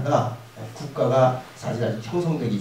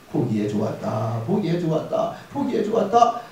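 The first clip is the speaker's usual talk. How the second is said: satisfied God. Acted. God admiring creation.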